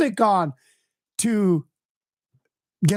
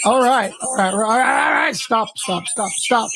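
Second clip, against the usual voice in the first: real shout; 3 semitones higher than usual. Real, not acted. Feedback blaring, he yells over.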